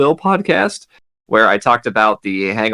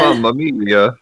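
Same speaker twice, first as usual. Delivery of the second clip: put-on Italian accent; slower than usual. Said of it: "what did Kyle said in the".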